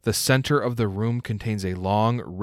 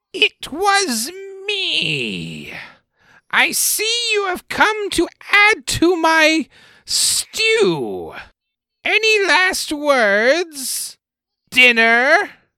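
very high, loud, shrill swooping goblin voice, "me" stretched; 7 dB louder than usual. Game master voicing a goblin that speaks up behind the party, as Vorka. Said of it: "The voice says".

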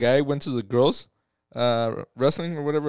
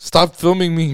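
mock-frustrated woman voice, higher, louder, slower; 3 semitones higher, 7 dB louder than usual. Retelling a video of a woman being filmed at an NFL game, mock-frustrated. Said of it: "she was getting frustrated".

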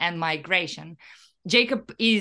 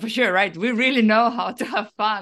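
dry, sarcastic tone; 4 dB louder than usual. Answering a co-host about a whole podcast season on solidarity: sarcastic. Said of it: "You've been sarcastic".

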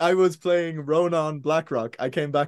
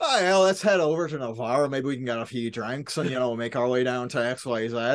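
bad Northern Irish accent, lower; 4 semitones lower than usual. Recalling how they voiced their first character, in a shitty northern irish accent. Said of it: "I'll do a shitty Northern Ireland accent".

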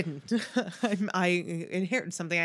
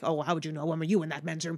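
snide, sneering, mocking tone. Acting out one of a woman's voices, the snide one: mock-snide tone. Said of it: "the kind of snide one like this".

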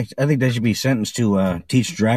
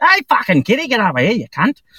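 very high-pitched first-try Australian accent; 12 semitones higher, 4 dB louder than usual. Retelling a first try at an australian accent, talking to their cats: trying an australian accent. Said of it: "I never did an Australian accent".

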